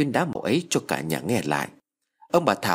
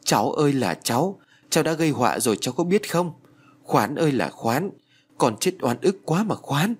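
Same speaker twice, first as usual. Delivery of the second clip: crying grandmother; 4 semitones higher than usual. Acted. Grandmother hugging the boy, mildly wailing for her son. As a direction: lament the dead son, understated tears. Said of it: "Bà Thảo ôm lấy thằng Tý mà khóc".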